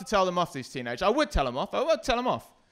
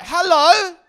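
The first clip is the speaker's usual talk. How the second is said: high, loud commanding Hello; hello as an order; 13 semitones higher, 13 dB louder than usual. Retold or imitated. The mum's Hello as a command, high and loud. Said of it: "She said it like it was an order".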